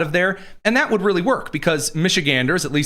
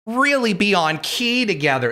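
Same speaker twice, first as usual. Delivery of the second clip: mock theater kid; 4 semitones higher than usual. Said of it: "these theater kids were like".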